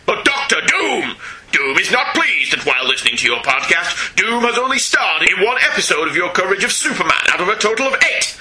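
booming echoing villain monologue; pompous supervillain proclaiming himself grandly; Doctor Doom. Acted. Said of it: "Gets pushed away from the keyboard".

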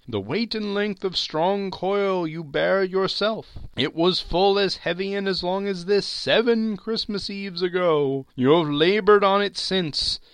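high, loud, hollow spectre; solemn ghost. Acted. Marley's ghost lecturing Scrooge, high and loud. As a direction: pronounce it like a doom.

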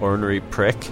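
ordinary delivery

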